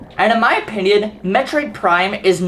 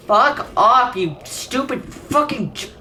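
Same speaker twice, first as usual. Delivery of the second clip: angry yell; 4 semitones higher, slower than usual. Real, not acted. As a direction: tell them off in real anger. Enemies block his jumps.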